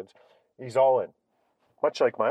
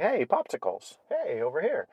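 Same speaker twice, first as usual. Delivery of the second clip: put-on light, higher-pitched kids calling out; mock carefree calling; 5 semitones higher than usual. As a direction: imitate oblivious kids calling to each other. Other kids calling out after game.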